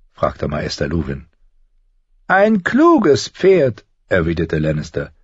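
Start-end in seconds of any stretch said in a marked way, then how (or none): 2.3-3.9 higher, sly and needling; a higher, sardonic little man's voice; mocking dwarf Tyrion. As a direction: talk down to a would-be lord with cool mockery.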